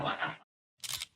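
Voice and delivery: slow whispered disbelief; retold stunned whisper. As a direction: breathe it out in shock. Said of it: "that's when we're like".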